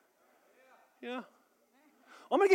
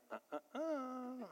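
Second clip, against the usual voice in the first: hesitant stammer sounds; 18 dB quieter, slower than usual. Retold or imitated. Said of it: "touchy-feely people are saying".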